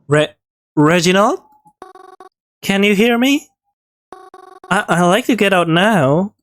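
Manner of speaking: anxious plea from inside the box; anxious calling. Acted. Trapped, calling to Reginald.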